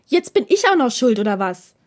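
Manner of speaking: höher und lauter, beinahe ein Schrei; empört aufbrausen, kurz vorm Schreien; fast geschrien. Acted. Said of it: "schrie Takeda nun fast". (beinahe schreiend vor Empörung)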